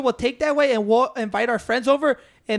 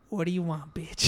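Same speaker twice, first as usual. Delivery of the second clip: mock gruff greeting; 6 semitones lower, 8 dB quieter than usual. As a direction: lower and much softer mock growl. Retold gruff greeting from brother.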